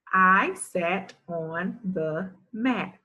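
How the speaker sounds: slow, word by word; careful beginner reading, word by word; slow decoding read. Shown as a demonstration. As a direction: sound out each word slowly. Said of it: "Let's read it a little bit more fluently".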